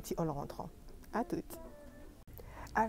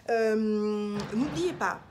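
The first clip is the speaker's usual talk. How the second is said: loud sudden reminder; calling out; 4 semitones higher, 11 dB louder, slower than usual. Real, not acted. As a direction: call it out loud.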